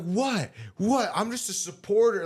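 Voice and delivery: high, whiny mock of a defensive fan; mock innocent supporter. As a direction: play dumb in a high pitched voice. Mimicking defensive Trump supporter.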